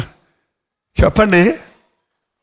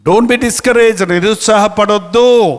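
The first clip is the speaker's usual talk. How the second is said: slow encouragement; 2 semitones higher, much slower than usual. Acted. Slow encouraging English line.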